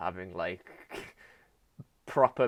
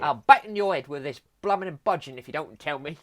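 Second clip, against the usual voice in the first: louder, higher comic British threat; hammed-up British bloke threat; mock British accent; 5 semitones higher, 6 dB louder than usual. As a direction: threaten like a cartoon Victorian Brit. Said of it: "All right, Alfred".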